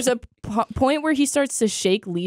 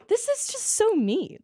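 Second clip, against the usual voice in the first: mock excited recognition; 13 semitones higher, 4 dB quieter, slower than usual. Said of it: "And I was like".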